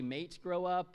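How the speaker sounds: light mock English accent; attempted English accent. Preacher playfully telling Joseph off as Brits might, attempted English accent. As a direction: try a casual English accent. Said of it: "I cannot do English accent".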